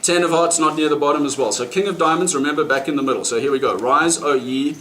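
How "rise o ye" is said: slow, mock-grand old English accent, laughing. Magician summoning the card in mock old English accent. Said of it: "talk to the cards in that old English accent".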